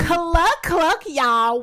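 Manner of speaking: high loud clucking shout; loud call. Pretend. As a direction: call it out like a hen. Hen greeting call.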